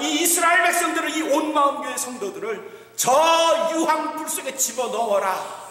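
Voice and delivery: stern judge calling out the guilty, rising to a shout; mock divine verdict, building to a cry; God passing judgment. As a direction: pronounce the sentence from the throne. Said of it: "하나님이 심판하시는 건".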